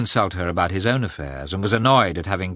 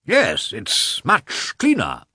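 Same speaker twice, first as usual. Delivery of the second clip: slow, lilting, higher-pitched smiling reply; good-natured; 5 semitones higher, slower than usual. A narrator's reading. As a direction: answer amiably with a smile in the voice. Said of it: "smiling good-naturedly".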